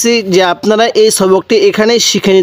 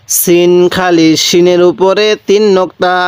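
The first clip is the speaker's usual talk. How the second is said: slow recitation; slower than usual. Shown as a demonstration. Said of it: "কিভাবে পড়ব?".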